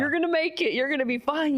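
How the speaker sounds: retold encouragement. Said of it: "saying it more for myself to be like".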